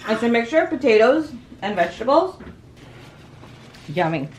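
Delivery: talking through a mouthful; chewing while explaining; mouth full. Real, not acted. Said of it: "I was talking with my mouth full".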